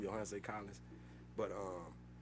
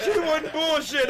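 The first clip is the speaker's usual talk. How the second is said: slow, loud and laughing through it; cracking up while telling it; 11 dB louder, slower than usual. Real, not acted. Laughing at the memory.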